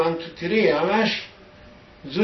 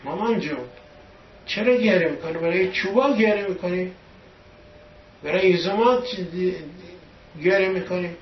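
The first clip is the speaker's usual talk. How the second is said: lightly voiced child, pitched higher; raised pitch, a hint of a pleading child; child consoling mother; 4 semitones higher than usual. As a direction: question and reassure mother as her little boy, lightly acted. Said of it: "من از مامانم پرسیدم".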